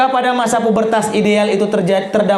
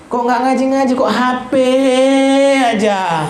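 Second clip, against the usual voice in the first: nagging mother; 5 semitones higher than usual. Retold or imitated. Mother nags child about phone.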